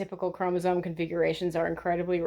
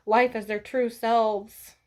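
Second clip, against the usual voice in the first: high, sing-song mock of a commenter; mocking a snarky commenter in a high voice; mocking quote; 4 semitones higher than usual. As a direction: mimic her in a silly high voice.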